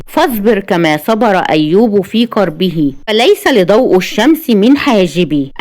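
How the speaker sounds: slow, measured formal verse; poetic recitation. A narrator's reading. Narrator recites verses on darkness and insight, solemn. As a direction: declaim slowly, line by line.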